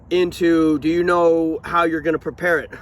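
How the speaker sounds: talking around a spoon; words muffled by a spoon; spoon in mouth. Real, not acted. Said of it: "Why am I talking with a spoon?".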